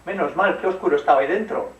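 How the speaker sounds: high, loud relieved exclamation; relieved mum. Acted. Mum freed from the wolf's belly, high and loud relief. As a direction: burst out in relief.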